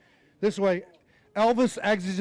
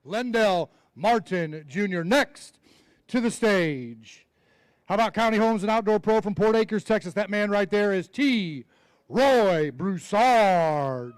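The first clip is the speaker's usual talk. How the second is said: slow, drawn-out ring announcer call; announcer intro; 3 dB louder than usual. Acted. Emcee introducing the next angler to the crowd, drawn-out announcer call. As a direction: stretch the name out for the crowd.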